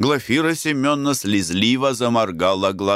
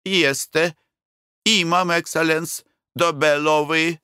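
lightly voiced Bulgarian servant, high and slow; a hotel servant's Bulgarian-accented Russian, pitched up; 8 semitones higher than usual. Hotel servant answers the traveller, Bulgarian-accented and higher.

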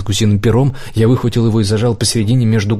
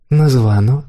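coy, modest; 3 semitones higher than usual. A narrator's reading. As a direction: admit it demurely. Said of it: "признался я скромно".

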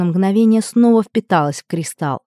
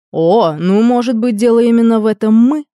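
mocking; 3 semitones higher, 4 dB louder than usual. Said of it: "насмешливо предположил Дайрон".

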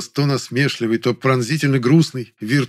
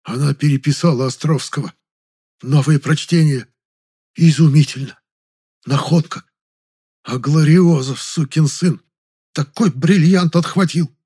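lightly acted envious gushing, pitched higher; envious, caustic; 4 semitones higher, 4 dB louder than usual. A narrator's reading. Assistant to the director about a rival's brilliant catch, envious and caustic. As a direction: marvel with a touch of venom. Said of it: "завистливо добавил ассистент язвительным голосом".

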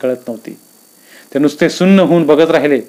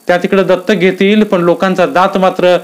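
raised, fretful voice to her husband; lightly voiced anxious wife; worried wife; 5 semitones higher than usual. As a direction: voice the village gossip uneasily.

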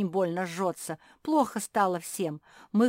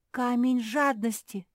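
shouting; 6 semitones higher, 3 dB louder than usual. A narrator's reading. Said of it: "закричала Капитолина".

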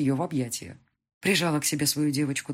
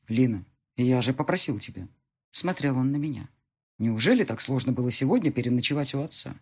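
lightly lowered husband voice; a hint of a husband reproaching her; husband takes wife aside to reproach her; reproachful husband; 4 semitones lower than usual.

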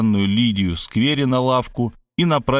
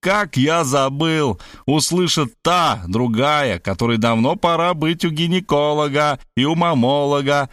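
yelling louder; 4 semitones higher than usual. Acted. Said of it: "завопил ещё громче".

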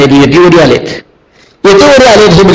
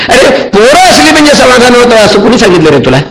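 amused chiding; 6 semitones higher than usual. Acted. Sage chides the king gently.

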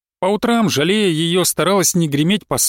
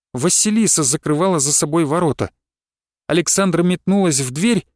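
ordinary delivery

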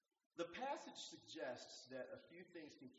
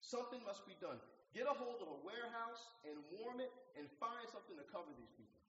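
firm order; 8 semitones higher, 3 dB louder than usual. Retold or imitated. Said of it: "He said".

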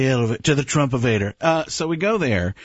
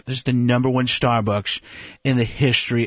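Trump voice; 4 semitones lower than usual. Retold or imitated. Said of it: "He's doing that".

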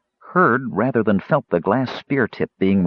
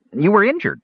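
gnome voice; 11 semitones higher, 4 dB louder than usual. A narrator's reading. Gnome Cider speaks.

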